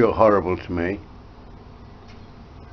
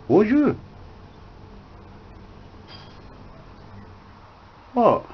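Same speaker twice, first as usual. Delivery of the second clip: mock parrot voice; 13 semitones higher, slower than usual. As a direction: chirp it back at the bird. Owner keeps high voice to parrot.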